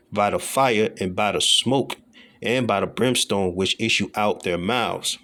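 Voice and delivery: slow, deliberate verse reading; scripture reading. Acted. Preacher reads of fire and brimstone, slow and measured. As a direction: read each phrase slowly.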